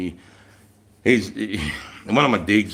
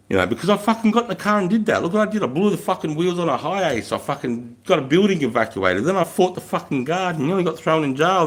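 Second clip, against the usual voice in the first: worked-up rant; 5 semitones higher than usual. Real, not acted. Agitated recount of his own mistakes.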